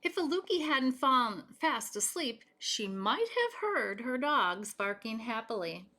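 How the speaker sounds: gentle read-aloud storytelling voice; story narration. Acted. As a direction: read it to children at bedtime. Reading picture book aloud.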